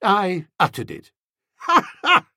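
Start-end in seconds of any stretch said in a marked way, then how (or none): 1.5-2.3 high, loud forced guffaw; Bertie's hearty fake guffaw; cheery guffaw. A narrator's reading. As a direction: laugh it off heartily. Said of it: "A cheery guffaw seemed in order".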